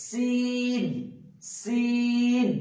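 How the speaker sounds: সিন with a sharp whistling hiss; teacher modelling সিন with a whistle; whistled s demo. Shown as a demonstration. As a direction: make সিন whistle as it leaves the mouth. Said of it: "মুখের যে একটা সিটি".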